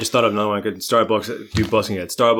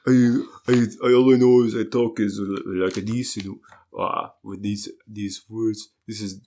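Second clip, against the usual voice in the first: French accent. Shown as a demonstration. Showing an unpractised audition accent, French accent. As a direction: feel your way into a rough French accent. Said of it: "And for French".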